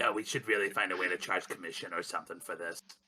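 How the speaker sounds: soft muttering under the breath. Speaking aside to another character in the game: said under breath. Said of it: "says under breath".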